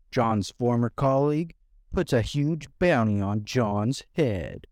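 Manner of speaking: dramatic trailer-style narration; narrating voice. Acted. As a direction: read it like a movie summary. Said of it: "that's my narrating voice".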